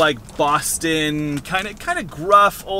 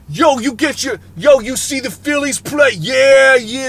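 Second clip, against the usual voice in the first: higher, louder gruff Boston banter; Boston guy talk; 7 semitones higher, 6 dB louder than usual. Retold or imitated. Two camp guys chatting about baseball in Boston accent. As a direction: chat about the Phillies like a Boston tough guy. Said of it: "Boston kind of, kind of guy talk".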